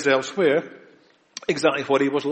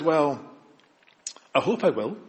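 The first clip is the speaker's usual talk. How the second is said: doubtful religious person. Acted. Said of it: "The religious person says".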